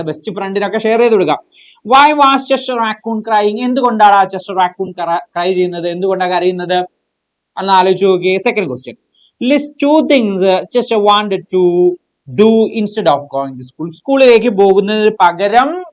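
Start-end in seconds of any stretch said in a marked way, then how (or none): 1.9-3.6 slow, drawn-out reading of the question. Shown as a demonstration. Teacher reading the exam question slowly to students. 9.5-13.9 slow, drawn-out reading of the question. Shown as a demonstration. Teacher reading the exam question slowly to students.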